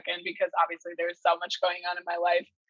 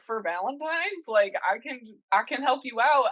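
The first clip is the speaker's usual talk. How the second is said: put-on higher-pitched goofy take on a Fezco accent; 4 semitones higher than usual. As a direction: imitate a stranger's drifting Fezco-like accent. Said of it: "like, a Fezco accent".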